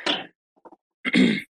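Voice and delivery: hoarse, barely there voice; lost voice. Real, not acted. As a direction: voice gone, croaking. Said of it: "I lost my voice".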